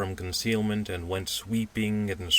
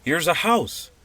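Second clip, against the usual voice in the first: excited cry; 10 semitones higher, 7 dB louder than usual. Acted. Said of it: "he cried".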